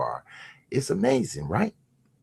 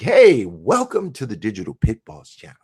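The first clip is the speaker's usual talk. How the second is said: YouTube voice. Pretend. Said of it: "that hell of a, um, YouTube voice".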